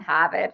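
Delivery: "have it" for Harvard, R left out; dropped R. Shown as a demonstration. Showing how Boston locals talk, R dropped in "have it". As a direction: say "have it" with no R sound. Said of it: "they don't say their R's out here".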